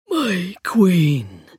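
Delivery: rasping, echoing undead voice; skeleton voice. A narrator's reading. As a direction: rasp it like a hollow echo. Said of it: "like a rasping echo".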